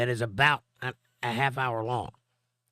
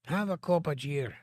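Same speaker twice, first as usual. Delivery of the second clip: put-on Irish accent; 4 semitones higher than usual. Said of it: "I can't do that with a laryngitis".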